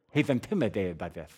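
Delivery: thick-tongued lisping; put-on heavy lisp; mock lisp. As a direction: imitate a fat-tongued speaker, s softened to th. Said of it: "He probably has a very serious lisp".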